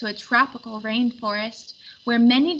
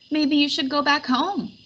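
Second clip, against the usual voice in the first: mild wail; 5 semitones higher than usual. Acted. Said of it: "wailed Wind".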